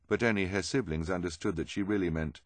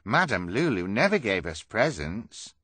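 raised, loud character voice; pitched-up storybook astonishment; amazed cry; 4 semitones higher, 7 dB louder than usual. Acted. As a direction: exclaim it in wonder. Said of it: "Kevin cried".

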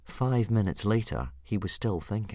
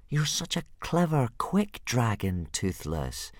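flattering; 4 semitones higher, slower than usual. Acted. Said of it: "Hiccup flattered".

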